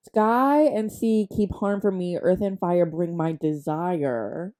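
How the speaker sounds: measured verse, slowing at the end; lightly dramatic poetry reading; poem recital. Acted. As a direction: recite it like a homemade spell. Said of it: "writes a poem in her brain".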